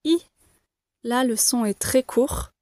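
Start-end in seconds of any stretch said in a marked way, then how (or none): 0.0-0.2 short, falling I; short I with a falling tune. Shown as a demonstration. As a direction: clip the I and let it drop. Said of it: "l'intonation est descendante".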